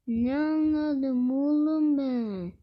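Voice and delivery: long, drawn-out mock lament; half-serious slow whine; mock wailing. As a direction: stretch every word into a playful wail. Mock lament over the game.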